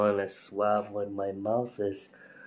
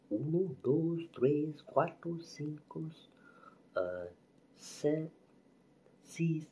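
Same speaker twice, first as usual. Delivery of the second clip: high counting; 8 semitones higher, slower than usual. Real, not acted. Counting in Spanish.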